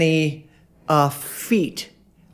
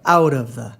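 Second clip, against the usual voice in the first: "out of the" with OUT heavy; dactyl stress; 2 semitones lower than usual. Shown as a demonstration. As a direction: lean on "out", let "of the" fall away lightly. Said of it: "not all dactyls".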